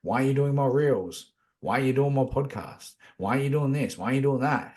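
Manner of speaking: lightly voiced inner critic, pestering; nagging ego voice. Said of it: "my ego will say".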